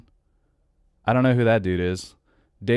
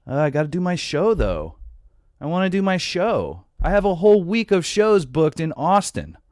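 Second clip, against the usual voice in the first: higher, whiny mock of a star insisting on his gigs; mocking Chappelle; 7 semitones higher than usual. Host mocking Dave Chappelle's excuse for touring, whiny mock voice. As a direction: sneer it like a spoiled performer. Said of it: "look at these fucking idiots".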